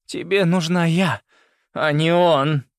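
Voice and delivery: high, loud angry snarl; growled. A narrator's reading. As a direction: snarl it out in defiance. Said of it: "рыкнула она". (злобно рыкнуть)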